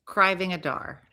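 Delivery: "Criving a dar" with the first sounds swapped; jumbled syllables. Shown as a demonstration. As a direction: say "Criving a dar" for driving a car. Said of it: "focus to say it wrong".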